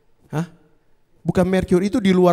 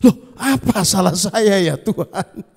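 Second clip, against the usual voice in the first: slow, laughing "what did I do wrong"; laughing bewilderment; slower than usual. Retold or imitated. Preacher laughing at his own confused prayer to God. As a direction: chuckle through a puzzled plea.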